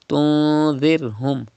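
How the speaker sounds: "Tunzirhum" with the n held in the nose; Gunna. Shown as a demonstration. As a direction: draw out the hum in "Tunzirhum". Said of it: "you have to read with Gunna".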